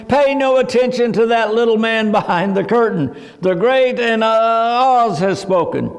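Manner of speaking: a hint of a flustered wizard stumbling over the words; lightly voiced, fumbling at the end; mild mock stammer through the wizard's lines. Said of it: "the wizard keeps on stammering".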